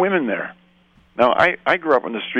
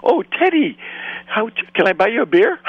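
sheepish backing down; 13 semitones higher than usual. Retold or imitated. Bully backs down, retold comically.

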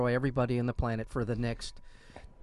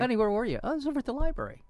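mock spouse dialogue; 11 semitones higher, faster than usual. Imagined wife and husband exchange.

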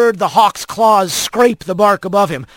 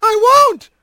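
high screamed refusal; screaming; 3 dB louder than usual. A narrator's reading. Otho defying the order to land, screaming. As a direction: scream it in wild defiance. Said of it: "Otho screamed".

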